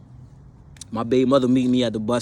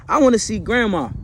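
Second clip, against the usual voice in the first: put-on higher childlike plea; little kid voice; 8 semitones higher, 4 dB louder than usual. Two-year-old son asking dad in car, childlike. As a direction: voice a small boy asking sweetly.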